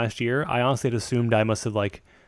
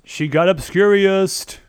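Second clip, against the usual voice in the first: dramatic narration; 8 semitones higher, 6 dB louder, much slower than usual. Acted. Dramatic slow voicing of scene.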